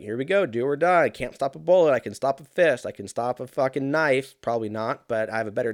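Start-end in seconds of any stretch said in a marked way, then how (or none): 0.0-4.3 higher, louder panicky inner voice; psyching up for a fight; panicked self-talk. Retold or imitated. Runner braces for the stranger's attack, loud panicky pep talk. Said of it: "and I was like".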